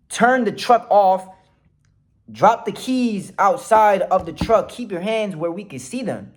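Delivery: retold police yelling. Cop ordering a driver from the car, retold yell. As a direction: imitate a cop ordering over a loudspeaker. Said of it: "they start yelling, like, uh, through the microphone".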